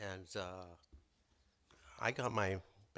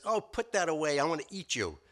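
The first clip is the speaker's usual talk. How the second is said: higher, louder demand; hungry hyena; 6 semitones higher, 4 dB louder than usual. Acted. Hyena telling the rabbit he wants to eat him. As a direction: toss off the threat like a greedy hyena.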